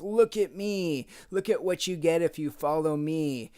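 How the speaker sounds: a hint of a vain tempter; boastful enemy. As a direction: lightly play the devil bragging for attention. Voicing the enemy showing off.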